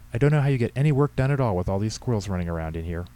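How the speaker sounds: a hint of exasperated old woman; fussing old lady. Voices Henrietta complaining.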